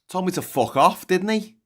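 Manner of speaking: hammed-up Scouse pub shout; mock indignant shout. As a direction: bellow it like he's been wronged. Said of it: "He said".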